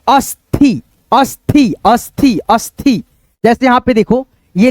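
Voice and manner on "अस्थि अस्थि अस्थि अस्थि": अस्थि repeated as as-thi, two beats; aspirated th. Shown as a demonstration. Teacher drilling what we will read, अस्थि as अस्-थि. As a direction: close the स, then puff थि in अस्थि. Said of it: "क्या पढ़ेंगे".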